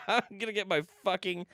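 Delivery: talking through real laughter, high; laughing. Real, not acted. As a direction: squeeze the words out while cracking up. Cracking up at own joke.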